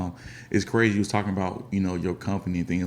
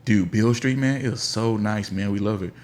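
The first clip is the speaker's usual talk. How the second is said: imitating tourists; 5 semitones higher than usual. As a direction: gush like a happy visitor. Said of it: "They're like".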